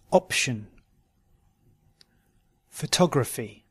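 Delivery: weak O reduced to "uh", as in "Potato"; "Condition" begun "kun", stress kept off the O; schwa for O. Shown as a demonstration. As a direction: model each word singly, "Prison" ending in schwa. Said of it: "where the schwa, uh, is spelt with an O".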